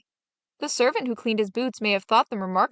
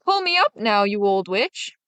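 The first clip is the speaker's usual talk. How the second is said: calling up. Acted. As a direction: shout it up the hollow tree. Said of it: "called up through the hollow tree".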